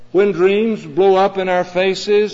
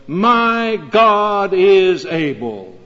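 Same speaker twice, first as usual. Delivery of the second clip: slow, firm and steady; calm confident reply; 4 dB louder, much slower than usual. Retold or imitated. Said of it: "came the reply of Daniel".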